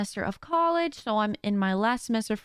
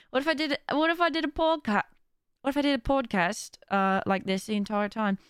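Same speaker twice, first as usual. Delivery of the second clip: put-on posh British accent. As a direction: play at sounding posh and British. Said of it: "I definitely put on a posh accent".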